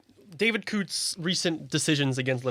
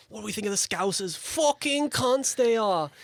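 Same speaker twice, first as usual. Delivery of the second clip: higher, slowed mock quote of a drunk lad; mock lad's rant; 6 semitones higher than usual. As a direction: ham up the kid's slurred jeer. Retelling a kid's Snapchat rant.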